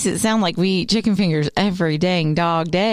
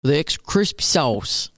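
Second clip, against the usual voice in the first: silly commercial voice. Pretend. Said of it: "So why am I doing that voice?".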